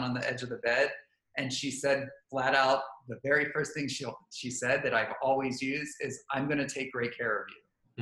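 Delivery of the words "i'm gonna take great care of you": calm and confident. Shown as a demonstration. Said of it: "a demeanor that looks calm and confident".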